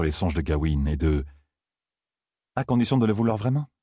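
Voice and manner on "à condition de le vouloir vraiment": mocking inner voice. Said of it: "railla la petite voix".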